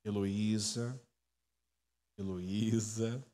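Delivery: gentle, low, drawn-out call of a name; hushed, tender summons; soft voice. Pretend. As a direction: call softly and slowly, very low. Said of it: "talvez uma voz suave".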